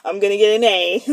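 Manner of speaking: loud, laughing insistence; laughing protest. Retold or imitated. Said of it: "I'm like".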